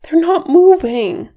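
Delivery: high, loud alarm; panicked cry. A narrator's reading. Kili searching the snow for the buried, panicked.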